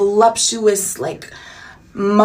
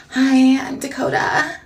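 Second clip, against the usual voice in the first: Dakota's breathy voice; 4 semitones higher, slower than usual. Retold or imitated. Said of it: "that's how she talks".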